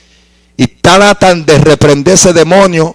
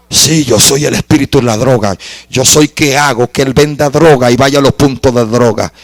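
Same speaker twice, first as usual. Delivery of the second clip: demon voice; 4 semitones lower than usual. Retold or imitated. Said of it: "con voz ronca me dijo".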